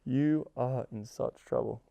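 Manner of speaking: drawn out, slow and playful; slow teasing threat. Shown as a demonstration. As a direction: savor each word of the threat. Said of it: "you can really start, like, saying".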